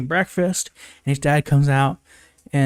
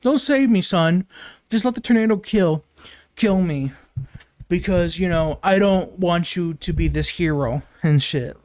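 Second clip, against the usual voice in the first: higher, hammed-up mock dad pleading; 4 semitones higher than usual. Mocking the tornado scene dad, higher hammy voice. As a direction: parody him melodramatically. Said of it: "where he's like".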